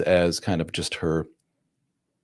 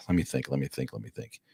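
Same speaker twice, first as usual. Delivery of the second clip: eye-rolling stall; 4 semitones lower, 8 dB quieter than usual. Retold or imitated. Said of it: "roll her eyes and be like".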